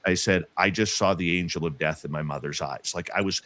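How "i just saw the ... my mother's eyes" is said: low, understated retold statement; matter-of-fact. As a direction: report it matter-of-factly, lower in pitch. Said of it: "that matter of fact".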